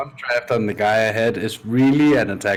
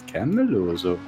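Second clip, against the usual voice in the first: mock Danish gibberish; 4 semitones lower than usual. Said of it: "when someone hears you talk Danish, it's just".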